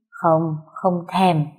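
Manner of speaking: put-on very slow, drawn-out drunken pout; a drunk husband pouting at his wife, very slow and drawn out; drunken sulky refusal. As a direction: stretch each word out like a sulking drunk.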